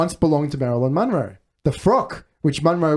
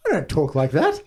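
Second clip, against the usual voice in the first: lightly attempted movie-star impression; a hint of an old film star's voice, half-hearted; Cary Grant. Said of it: "Can anyone do it effectively?".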